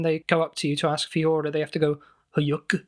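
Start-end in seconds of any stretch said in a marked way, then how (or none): 2.4-2.8 put-on goofy French-accented Hyuk; a Goofy laugh in a French accent. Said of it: "in a French accent".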